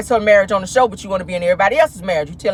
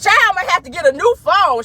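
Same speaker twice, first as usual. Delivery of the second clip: imitating Keke; 8 semitones higher, 3 dB louder than usual. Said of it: "Then she said".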